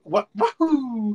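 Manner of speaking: high, loud surprised whoop; gleeful whoop. Pretend. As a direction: whoop like you just flew up. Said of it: "I wish I could go".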